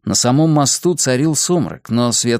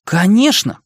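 put-on higher-pitched, boyish "of course"; keen, raised-pitch agreement; eager exclamation; 8 semitones higher, 3 dB louder than usual. A narrator's reading. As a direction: exclaim it keenly, pitch lifted. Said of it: "воскликнул Джо".

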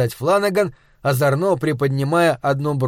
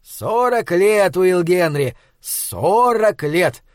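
slow, mock-weary lament; theatrical sigh; 3 semitones higher, much slower than usual. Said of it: "театрально вздохнул".

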